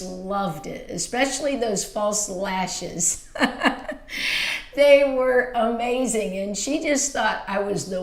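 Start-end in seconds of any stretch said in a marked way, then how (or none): 3.3-4.7 light airy giggle; breathy little laugh of delight; happy laugh. Real, not acted. Delighted memory of aunt's lashes.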